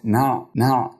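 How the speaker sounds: "نع" with the noon open and the ayn closed; vowelless ayn. Shown as a demonstration. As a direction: say "نع", stopping on a still ayn. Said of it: "العين في كلمة نعبد ساكنة والنون مفتوحة".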